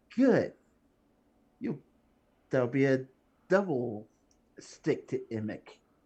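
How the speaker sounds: speaking with light chuckles through the words. Speaker answers a player's question in character: chuckling. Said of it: "Bolo kind of chuckles like".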